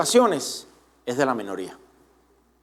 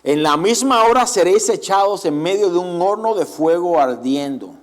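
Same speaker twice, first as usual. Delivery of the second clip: Nebuchadnezzar voice. Retold or imitated. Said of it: "imitar un poco la voz de Nabucodonosor".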